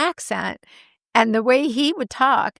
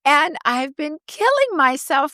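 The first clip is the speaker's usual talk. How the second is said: raised, slow imitation of her mom; mom's voice; 4 semitones higher than usual. Daughter quoting her mom about the Osbournes, lightly higher. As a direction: playfully mimic her mother's chatter. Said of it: "she goes".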